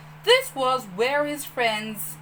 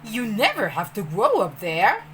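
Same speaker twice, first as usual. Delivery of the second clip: put-on urging boy; 4 dB louder than usual. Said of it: "Peter urged".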